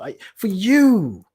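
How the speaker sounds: rising preacher-like urging; impassioned plea. Real, not acted. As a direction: plead with them to face the question. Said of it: "Let's make it simple".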